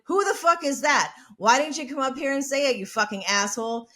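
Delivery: imitated indignant challenge; retold angry retort. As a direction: fire back at a heckler. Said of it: "Jane responded".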